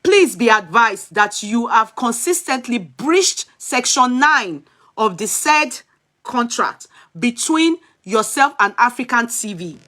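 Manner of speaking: slow, measured reading of a legal notice; formal letter reading. Acted. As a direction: read it out like an official warning. Reads a letter aloud.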